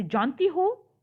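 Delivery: lightly astonished question; surprised question. Shown as a demonstration. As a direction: show mild surprise by lifting "हो". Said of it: "आश्चर्य, जैसे".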